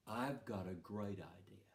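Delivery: conspiratorial whisper; scheming whisper. Retold or imitated. Dad whispering his great idea to the boys. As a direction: whisper it like a sly plan.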